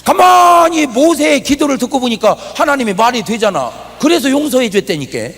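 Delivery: loud, high preaching voice. Acted. Pastor preaching to the congregation, full force. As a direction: drive the point home like a preacher.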